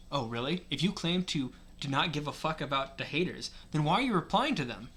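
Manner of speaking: lightly mimicked debater's voice; Ben Shapiro. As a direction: argue it like a pundit, quick at the end. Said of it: "Ben Shapiro voice".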